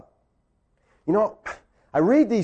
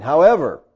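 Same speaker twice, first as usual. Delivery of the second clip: "However" pushed louder on the middle syllable; stress on However; 2 semitones lower, 4 dB louder than usual. Shown as a demonstration. Preacher reading a verse to congregation, "However" stressed. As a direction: punch "However" as a turning point. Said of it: "catch that "however".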